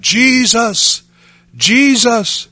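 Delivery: loud, high call, as if scared; crying out for help. Retold or imitated. Scared woman knocked down by a cow, crying out. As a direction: imitate a desperate cry for rescue. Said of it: "she began to cry out".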